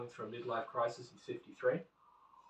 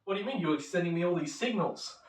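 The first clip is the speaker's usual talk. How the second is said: mock indignant, pitched up; angry; 4 semitones higher, 5 dB louder than usual. Rejected customer challenging the saleswoman, mock angry. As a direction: protest like a wronged suitor, mildly heated. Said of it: "then he gets angry and says".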